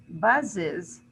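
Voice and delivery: "Buzzes" carefully said as BUZZ-iz; teacher sounding out both syllables of "Buzzes"; two syllables. Shown as a demonstration. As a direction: give "Buzzes" a clear second beat, "iz". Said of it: "is two syllable".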